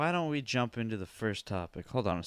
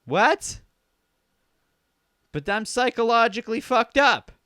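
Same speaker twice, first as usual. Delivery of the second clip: high, loud whiny protest; high-pitched indignant son; Jeffrey's whiny protest; 9 semitones higher, 7 dB louder than usual. Retold or imitated. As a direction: squeal it like an upset kid. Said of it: "And Jeffrey says".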